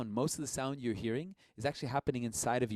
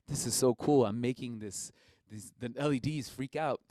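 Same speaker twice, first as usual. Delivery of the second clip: excited; 7 dB louder than usual. Retold or imitated. Retelling excited discovery.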